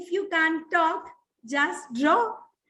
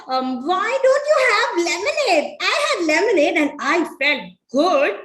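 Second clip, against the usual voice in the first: laughing offer. Acted.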